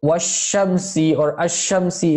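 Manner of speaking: washamsi, ashamsi with the lam dropped into "sh"; lam left silent. Shown as a demonstration. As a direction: skip the l and hold the "sh" in ashamsi. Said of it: "is the sound".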